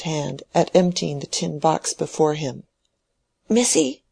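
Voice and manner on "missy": put-on higher, coaxing old man's call; a frail old man grabbing her attention; urgent old man. Old man calling Mary over from his bed, higher and urgent. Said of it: "he began to say hurriedly".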